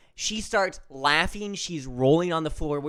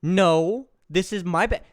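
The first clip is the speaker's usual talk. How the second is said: higher, louder mock protest on "No"; indignant retort; 4 semitones higher, 6 dB louder than usual. Adult disputes the bed with a four-year-old, mock indignation. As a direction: push back like arguing with a child. Adult argues back at child.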